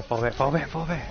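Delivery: shouting orders over battle. Real, not acted.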